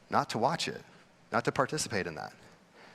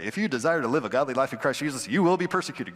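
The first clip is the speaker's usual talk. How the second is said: mock-cheery read of If you desire, persecuted landing flat; sarcastic calendar-verse voice; faster than usual. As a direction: read the verse like a sunny daily devotional, tongue in cheek. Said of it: "Christian calendars that you get up and you read".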